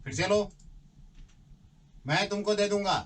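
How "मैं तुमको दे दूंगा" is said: acted demo. Shown as a demonstration. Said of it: "अच्छे से".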